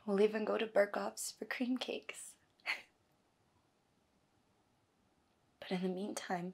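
soft, halting reassurance to a loved one; hushed, intimate promising; tender promise. Acted. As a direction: comfort gently, with long pauses. Acts monologue, comforting Putty.

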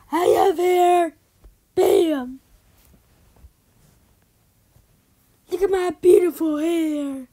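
put-on loud, bragging girl's voice; loud boast. A bragging girl shouts about her hair.

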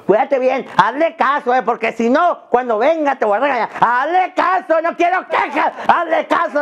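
a hint of a stern mom leaving the kid; mock mom warning. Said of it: "nomás dice al niño". (mamá advirtiendo al niño, con voz un poco más aguda)

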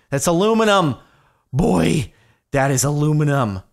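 loud, high, triumphant cry of discovery; pure relief and joy at finding it; excited shout. Real, not acted. Miner who finally spots aluminum ore, triumphant loud shout.

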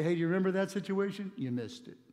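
ordinary talk

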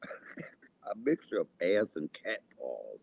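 slow, laughing repeat. Shown as a demonstration. Slowly repeating the insult to viewers, laughing. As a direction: drag it out while laughing.

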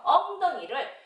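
amused giggle on 엉덩이를; laughing. Real, not acted. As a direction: laugh through the word. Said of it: "이거는요 laugh".

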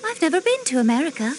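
put-on a quick denial that slips into an American accent; slipping American accent. Countess denying America, a slip of American accent. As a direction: let the American accent slip through as she denies it. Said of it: "you say it with an American accent".

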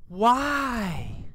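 ordinary talk, nothing marked

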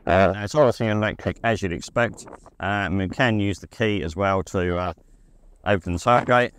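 talking outdoors in the wind; windy. Real, not acted. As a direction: wind noise on the mic. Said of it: "apologise if it's sounding a bit windy".

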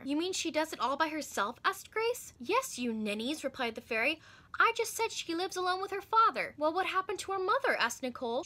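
put-on lively read-aloud voice for children; storybook narration. A narrator's reading. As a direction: tell it like a bedtime story to kids. Reads a children's book aloud.

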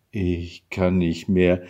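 loud, slow complaint; exhausted cry. A narrator's reading. Husband gives up before dropping into the armchair, exhausted cry. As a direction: groan it out loudly, worn out. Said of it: "rief der Mann".

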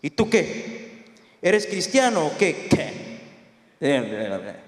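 low, slow interrogation; deep, drawn-out questioning, ending very low; big military man. Retold or imitated. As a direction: play a big officer sizing someone up. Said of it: "grande el hombre".

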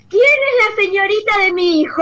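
high, emotional voice with a hint of tears; moved mother. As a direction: imitate the touched mother asking. The mother arrives asking.

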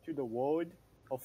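halting attempt at British "world"; attempted British accent. Shown as a demonstration. Friend practising the game's welcome, faltering British accent. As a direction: try "world" over and over in British. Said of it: "no, I can't do that".

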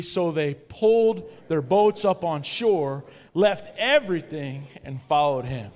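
slow, loud group reading of the verse. Shown as a demonstration. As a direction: lead the room through it slowly. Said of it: "let's read it out loud together".

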